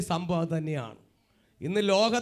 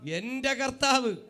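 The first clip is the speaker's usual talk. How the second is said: slow, higher, earnest declaration; heartfelt declaration; 6 semitones higher, slower than usual. Shown as a demonstration. Preacher shows congregation how to claim their Lord, heartfelt declaration. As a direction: say it slowly and wholeheartedly, drawing out each word. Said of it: "ആത്മാർത്ഥയായിരിക്കണം".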